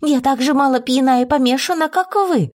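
high, offended voice rising at the end; indignant retort. Acted. Insulted guest blurts back at the haughty lady, high indignant retort. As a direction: blurt it back, stung and proud. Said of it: "выпалила в ответ".

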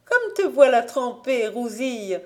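a touch of startled aunt; exclaiming. Acted. Véronique greeting her soaked niece, lightly surprised. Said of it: "s'exclama-t-elle".

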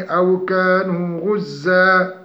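slow melodic tajweed chant; Quranic recitation. Shown as a demonstration. Tajweed teacher reciting an example verse slowly.

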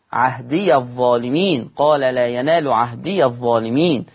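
عهديَ الظالمين with ya open, joined; Warsh reading. Shown as a demonstration. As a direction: slowly open the ya of عهدي into الظالمين. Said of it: "بفتح الياء وصلا". (عهديَ الظالمين بفتح الياء وصلا)

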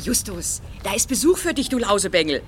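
von weit weg laut nach dem Jungen rufen; aus der Ferne gerufen. Acted. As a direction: ruft quer über den Schrottplatz. Aunt keeps calling the boy. (Tante Mathilda ruft aus der Ferne nach Justus)

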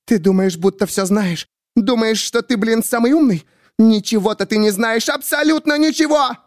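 high, rising to a shriek; building fury. A narrator's reading. Miriam raging at the narrator, high and rising. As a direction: tear into him.

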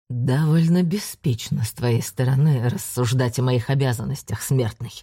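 low menacing hiss of a demon; nightmare spirit. Acted. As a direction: loom over him and hiss. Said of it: "прошипел он".

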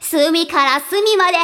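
lightly sultry maid; sexy maid voice. Pretend. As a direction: try to sound seductive. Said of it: "今度はセクシーに行ってみよう". (セクシーなメイド風に)

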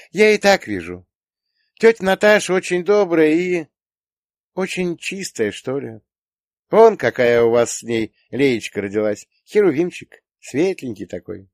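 put-on high girlish voice with hesitations; admiring daughter. A narrator's reading. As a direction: praise them in a high girl's voice. Daughter praises aunt and baby. (дочь хвалит, высоким девичьим голосом)

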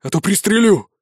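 cornered man threatening to shoot; threatening bark. Acted. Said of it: "рявкнул тот в ответ".

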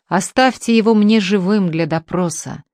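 a touch of shouting, stress on его; mild yell. Acted. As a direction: ruft mit Nachdruck, Betonung auf его. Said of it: "вопил Потяшкин".

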